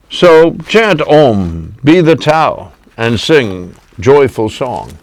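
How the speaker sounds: slow, measured poem reading; poem recitation. Acted. Poet reciting his peace poem to the host. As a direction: recite the verses like a sermon.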